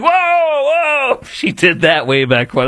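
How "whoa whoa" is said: high startled whoa; startled mock yelp. Host acting startled when gun points at him, high yelp. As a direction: yelp like a gun just swung at you. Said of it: "You're like".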